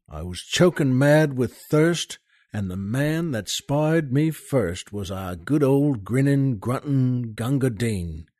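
dramatic ballad recital with soldier's swagger; poem recitation. Acted. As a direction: recite it like an old barrack-room ballad. Host recites Kipling poem.

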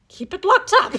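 laughing. Real, not acted. Telling Jekyll to lock his bad side up, laughing. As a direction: blurt it through laughter.

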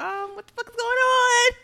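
loud, high, incredulous demand; hammed-up outraged question; retold confrontation. Confronting roommate in the story.

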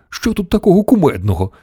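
high-pitched, mildly puzzled question; puzzled surprise. A narrator's reading. Grandmother asking what the others find so funny, mildly surprised. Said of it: "здивувалася бабуся Джозефіна".

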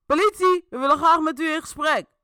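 loud, high official shout; an officer calling into the house; police calling out. A narrator's reading. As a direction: announce it through the glass. Agent calls through window.

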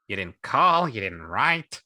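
lightly put-on wounded complaint; a hint of theatrical grievance; character voice. A narrator's reading. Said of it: "the payoff for that voice".

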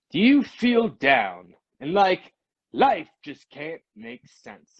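slow, probing infomercial voice; slow TV pitchman. Retold or imitated. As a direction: lean in like a late-night ad. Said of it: "He goes".

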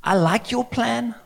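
high-pitched, hesitant would-be adviser; cheeky Peter. Acted. Peter appraising Jesus's plan, high and tactfully doubtful. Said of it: "Peter was like".

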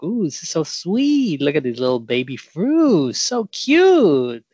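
high, cooing gush over tiny fruits; gushing over cute fruit. Retold or imitated. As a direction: coo like someone melting over baby fruit. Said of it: "people see them think like".

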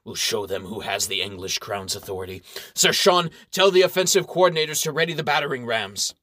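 gruff baron. Acted. Baron orders attack.

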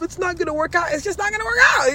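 defeatist mindset. Acted. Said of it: "as long as you have the mindset of".

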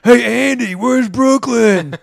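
loud, high, drawn-out redneck yell at a star; hammed-up redneck heckler calling out slowly; redneck fan. Redneck fan yelling at Andy Roddick across the range, loud and slow. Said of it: "big redneck guy goes".

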